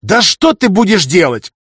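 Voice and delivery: high, loud, slow outburst; exploding. A narrator's reading. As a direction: blow up in exasperation. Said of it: "тут же взорвался старший советник".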